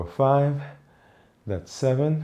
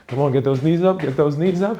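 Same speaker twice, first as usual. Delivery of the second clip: coach encouragement; 5 semitones higher, 3 dB louder than usual. Real, not acted. Coach urging during high knees.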